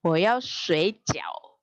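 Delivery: slow phrase with "sui" dipping low; third tone on sui. Shown as a demonstration. Teacher showing how sleep becomes dumpling, "sui" slowly dipped in third tone. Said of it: "Kalau nyebutnya nada tiga".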